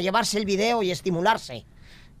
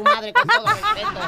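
sarcastic; 10 semitones higher, 3 dB louder than usual. Acted. Insult sweetened sarcastically.

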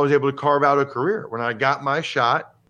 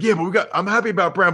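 mock dad; 6 semitones higher, 3 dB louder, much faster than usual. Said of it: "his dad's like".

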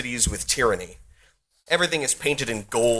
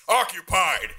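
rumbling hobgoblin voice; 6 semitones higher, slower than usual. Acted. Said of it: "the hobgoblin says in a rumbling voice".

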